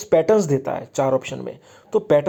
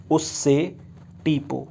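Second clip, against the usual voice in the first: slow mnemonic recital; 4 dB quieter, slower than usual. Shown as a demonstration. Teacher repeats a memory trick.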